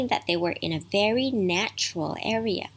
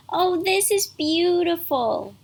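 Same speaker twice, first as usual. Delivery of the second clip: put-on delighted girl; 9 semitones higher, 3 dB louder, slower than usual. Mandy delighted at the mountain.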